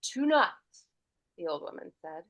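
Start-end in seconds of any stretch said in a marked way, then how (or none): 0.0-0.8 long vowels. Shown as a demonstration. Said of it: "elongating the vowels".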